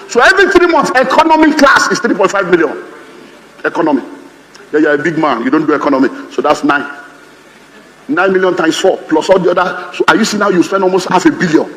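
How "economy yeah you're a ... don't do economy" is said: ordinary delivery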